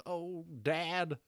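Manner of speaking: high, mock-childlike whine; a quick lighthearted imitation of a needy pet; clingy dragon. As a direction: play the doting dragon calling its dad. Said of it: "clinging to you and being like".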